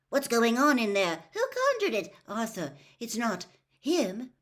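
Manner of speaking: loud, high anxious questions; frightened crowd. A narrator's reading. Frightened wizard crowd pressing Mister Weasley, anxious. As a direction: panicky witches pressing him.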